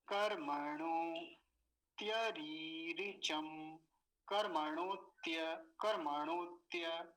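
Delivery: slow chanted recital, word by word; teacher reciting the mantra slowly for students to repeat; slow mantra recitation. Shown as a demonstration. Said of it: "सभी शब्दों को देख लीजिए ध्यान से".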